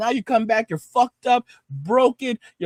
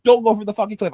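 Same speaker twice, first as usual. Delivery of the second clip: reading the sign; 4 dB louder, faster than usual. Retold or imitated. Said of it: "I put that sign right there".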